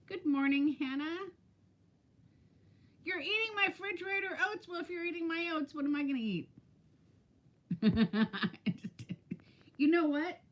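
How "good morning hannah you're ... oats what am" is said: mock outrage. Real, not acted. Catching Hannah eating her oats.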